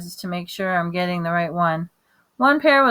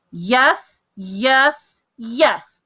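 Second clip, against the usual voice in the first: put-on loud, higher child's insistence; hollering; 4 semitones higher, 4 dB louder, much slower than usual. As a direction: holler yes like a stubborn toddler. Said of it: "Fudge hollered".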